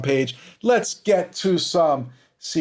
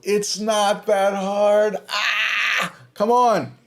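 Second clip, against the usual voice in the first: exasperated shout; 5 semitones higher, much slower than usual. Real, not acted. Exasperated at the bad call.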